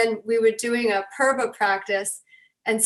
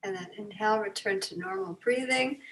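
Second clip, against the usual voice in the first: guided breathing. Real, not acted. Leads breathing exercise.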